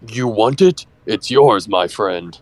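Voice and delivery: dropping low on "my friend"; slick dealer act. Acted. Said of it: "I thought you were gonna do, like, the".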